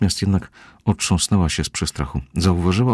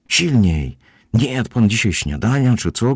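lekko podniesiony, zniecierpliwiony głos, wyżej; lekko gniewnie; 6 semitones higher, 3 dB louder than usual. A narrator's reading. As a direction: gderaj z lekkim gniewem, ponaglając. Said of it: "gniewała się Karen". (z przyganą, gniewnie)

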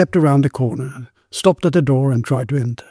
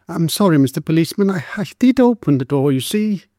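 put-on timid girl; 5 semitones higher than usual. Girl apologising to policeman.

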